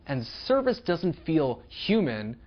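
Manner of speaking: monotone robotic delivery. Pretend. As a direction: speak like a stiff machine. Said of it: "That was my robot impression".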